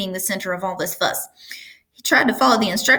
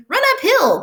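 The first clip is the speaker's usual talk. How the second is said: much higher, louder sheep cry; 6 dB louder than usual. A narrator's reading. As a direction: call the advice out like a sheep. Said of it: "cried the sheep".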